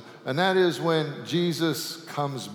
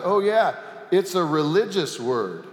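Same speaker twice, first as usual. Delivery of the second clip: raised, excited voice; sudden realization; 4 semitones higher, 4 dB louder than usual. Acted. Man remembering the right word, raised and excited. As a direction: catch the answer all at once. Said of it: "the man realized".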